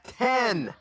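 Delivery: high, happy shout of triumph; excited cheer. Real, not acted. Player rejoicing at rolling a ten. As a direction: celebrate the roll. Player rolls max on die.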